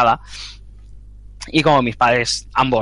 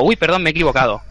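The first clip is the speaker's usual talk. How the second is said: caller switching to a sudden polite voice; changed voice; 4 semitones higher than usual. Retold or imitated. Retold caller suddenly changing his voice to apologize. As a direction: snap into an innocent apologetic tone. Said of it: "el tipo me cambió la voz".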